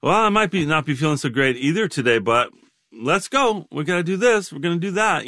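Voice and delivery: gently rally yourself, pitch lifting toward the end; retold can-do morning cheer, understated; lightly voiced optimistic wife. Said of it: "indefatigably optimistic".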